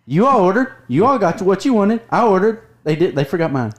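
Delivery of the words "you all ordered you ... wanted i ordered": voice going up. Real, not acted. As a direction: pitch rising with indignation. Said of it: "did you hear his voice go up".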